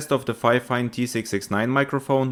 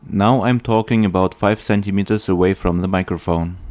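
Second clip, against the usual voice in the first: popping p sounds; 4 semitones lower, 5 dB louder than usual. Real, not acted. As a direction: close to the mic, plosives popping. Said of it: "without a pop filter".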